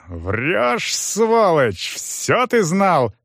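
Sych yells at the liar, slowing at the end; angry yell. Acted. Сыч орёт на Стефана, уличая во лжи. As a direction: bark the accusation. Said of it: "И тут Сыч вдруг заорал".

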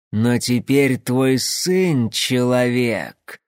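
slow, solemn otherworldly voice; eerie creature voice. Acted. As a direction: intone like a creature from the dark. Fomor leader speaking.

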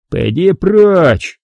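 slow, blunt giant's refusal; a lumbering doorman says no; thick monster voice; dim brute. Acted. Monster menaces.

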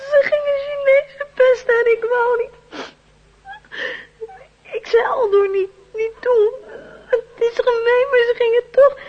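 put-on tearful, sobbing child; child sobbing to the adult about the bullies; crying. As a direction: tell it through tears. Child sobbing out what happened.

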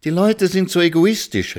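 high-pitched indignant outcry; exclaiming. A narrator's reading. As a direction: cry it out, pitch way up. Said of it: "rief Frau Schimanski aus". (mit hoher Stimme ausgerufen)

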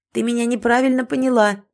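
lightly squeaky kitten voice; a hint of a small squeaking kitten. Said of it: "пискнул котёнок".

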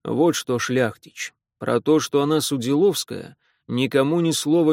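loud, gruff demanding official. Acted. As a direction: bark it like a stern old official. Repnin's gruff voice. (громкий грубоватый чиновник)

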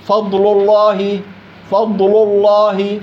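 فضل الله with the ل of فضل also made heavy and dark; mock mistake, heavy all through; both heavy, the wrong take. Shown as a demonstration. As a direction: wrongly darken both words together. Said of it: "فخم الثنتين ببعض وامشي".

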